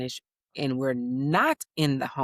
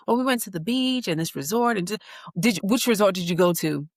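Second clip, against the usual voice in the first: higher, fast little-expert voice; know-it-all kid; 5 semitones higher, 3 dB louder, faster than usual. Retold or imitated. Son quizzing his big cousin about resorts, higher fast kid voice. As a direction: rattle it off like a know-it-all boy.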